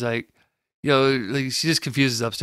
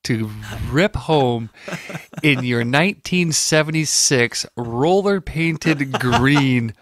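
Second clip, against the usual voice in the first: teasing; 3 semitones higher, 3 dB louder, slower than usual. Acted. Teasing friend about old habit.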